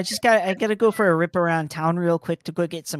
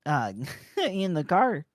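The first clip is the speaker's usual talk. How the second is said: forced Canadian accent; 4 semitones higher than usual. Shown as a demonstration. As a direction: lay the Canadian accent on thick. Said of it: "me just forcing my natural accent".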